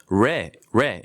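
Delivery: "레" with a rounded R onset; practice R sound. Shown as a demonstration. Teacher drilling the R for Korean learners, practice R sound. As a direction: say "레" slowly, rounding into the R. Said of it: "이렇게 발음을 하시면 돼요".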